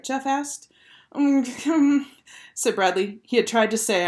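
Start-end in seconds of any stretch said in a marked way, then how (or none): 1.1-3.2 high, wordless "um" hum; stuck, inarticulate humming; tongue-tied mumble. A narrator's reading. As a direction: try to answer with the mouth stuck shut. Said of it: "his mouth didn't work".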